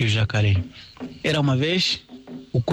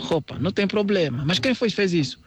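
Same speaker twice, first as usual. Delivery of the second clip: raised character voices; rabbit and tortoise voices; 7 semitones higher than usual. Acted. Rabbit asking Senhor Cágado for help, raised character voices. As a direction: plead the problem to the tortoise.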